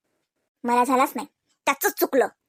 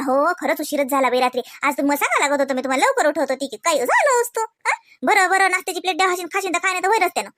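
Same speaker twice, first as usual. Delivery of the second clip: sweet apology demo; 2 semitones higher than usual. Retold or imitated. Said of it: "तर आपण म्हणा".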